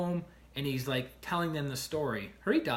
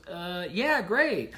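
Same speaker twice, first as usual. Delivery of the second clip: mock bored reply; 3 semitones higher, 4 dB louder, much slower than usual. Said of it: "And she goes".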